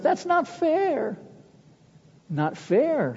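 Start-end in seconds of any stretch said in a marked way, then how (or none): 0.0-1.2 very high, slow mock howl of protest. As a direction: wail it like outraged students. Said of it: "they howled in protest".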